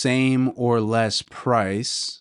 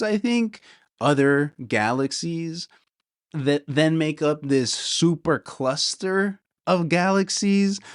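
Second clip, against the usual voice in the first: higher, building amazed wonder; rising higher with cosmic amazement; excited awe; 7 semitones higher than usual. Real, not acted. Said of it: "already I'm getting too excited".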